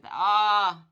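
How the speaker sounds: loud, drawn-out achy groan; mock achy groan. Waking up sore in the morning, hammed-up groan. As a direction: groan as if sore all over.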